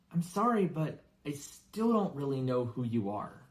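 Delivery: put-on a shy boy apologising; Harry asks the giant politely, shy; boy's voice.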